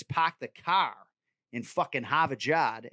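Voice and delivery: Boston accent. Shown as a demonstration.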